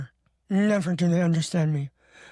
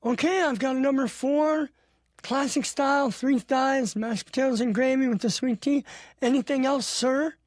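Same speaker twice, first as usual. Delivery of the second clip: higher, quick order read-back; drive-thru worker; 4 semitones higher than usual. Retold or imitated. Drive-thru cashier repeating his Popeyes order, higher voice. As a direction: rattle off the order like a cashier, pitch up. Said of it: "I'm like, "Whoa, sir".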